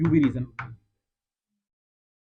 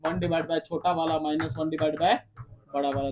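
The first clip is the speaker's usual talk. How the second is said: slow, measured recitation of formula; teacher reciting the formula to memorise; slow formula dictation; 4 semitones lower, 3 dB quieter, slower than usual. Shown as a demonstration. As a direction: read the formula out slowly for memorising. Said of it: "formula याद रखो".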